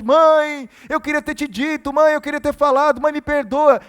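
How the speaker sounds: loud, high mock wail of grieving children; imitating desperate cries. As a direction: cry out "mother" as if pleading too late. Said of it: "gritando desesperadamente".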